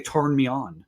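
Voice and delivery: imitating a failed Deep South accent; Deep South accent, lightly mocked. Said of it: "he couldn't say".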